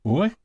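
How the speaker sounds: "ui" said as one gliding sound like the start of "quit"; isolated demo of "ui", like "wee"; pronunciation demo. Shown as a demonstration. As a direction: sound out "ui" on its own as a wee glide. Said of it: "Upsilon iota is pronounced as".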